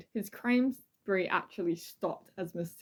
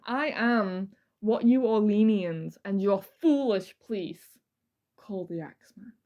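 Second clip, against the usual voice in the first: dramatic reading. Acted. Host reading the Axeman's self-naming, slowing into a whisper. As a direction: reveal the name like a secret threat. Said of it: "This is a dramatic reading".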